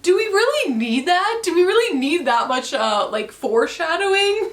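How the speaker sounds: real disbelief at the book; exasperated. Real, not acted. Exasperated rant about book.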